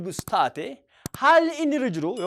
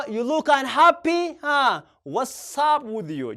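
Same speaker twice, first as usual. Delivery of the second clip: louder, slow, concerned; loud slow model; 4 semitones higher, 3 dB louder, much slower than usual. Shown as a demonstration. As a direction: ask a sad friend, loud and slow.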